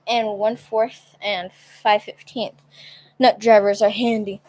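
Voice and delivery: talking through hiccups; hiccupy speech. Real, not acted. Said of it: "I have the hiccups right now".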